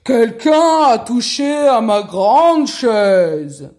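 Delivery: huge, slow booming cry; big bear's shout. A narrator's reading. Big bear finds his chair touched, loud slow shout. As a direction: bellow it slowly as a big bear. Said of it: "cria d'une grande voix".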